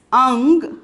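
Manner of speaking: ang with a nasal ng closing in g; ang, held on the nasal. Shown as a demonstration. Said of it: "we are pronouncing it as".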